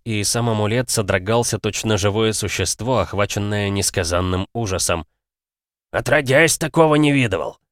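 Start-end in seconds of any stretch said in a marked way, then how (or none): 5.9-7.6 hoarse dwarf voice. Acted. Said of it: "осипшим голосом выдавил гном".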